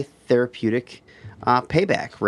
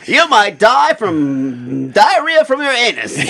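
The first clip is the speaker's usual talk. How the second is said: put-on slow, high old Hollywood star voice; glamorous mid-Atlantic announcer drawl; transatlantic accent; 8 semitones higher, 5 dB louder, slower than usual. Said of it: "Should I say it in transatlantic".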